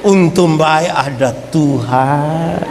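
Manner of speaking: slow, laughing thanks; mock grateful laugh, slowed; laughing relief. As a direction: chuckle out the relief. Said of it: "dia bilang".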